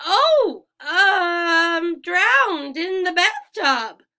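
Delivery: high, loud flustered laugh; nervous lie. A narrator's reading. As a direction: blurt out a panicked excuse. Grover nervously lying.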